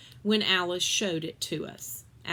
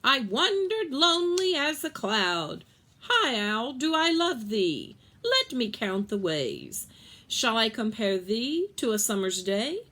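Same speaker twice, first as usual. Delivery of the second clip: high, loud squawky recital; a bird reciting poetry, higher and louder; parrot spouting poems; 4 semitones higher, 3 dB louder than usual. Acted. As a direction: rattle off the lines like a parrot. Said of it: "Lena spouts it back".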